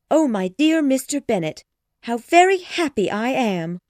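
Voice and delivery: high, loud gushing delight; overjoyed mother. Acted. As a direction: gush over her husband. Mrs Bennet overjoyed.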